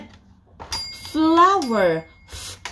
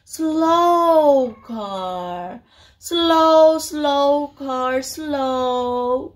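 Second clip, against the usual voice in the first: slow; 3 semitones higher, much slower than usual. Shown as a demonstration. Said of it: "So what about slow car?".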